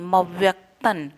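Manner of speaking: मव्यक्तन with dot as n; final n. Shown as a demonstration. Teacher sounds the dot over त as n. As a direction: end मव्यक्तन on a clear n. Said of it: "न नहीं".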